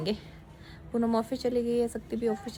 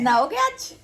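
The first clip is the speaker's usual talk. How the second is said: 1 laughing tease; 7 semitones higher, 6 dB louder, slower than usual. Real, not acted. Teasing the boy with laugh.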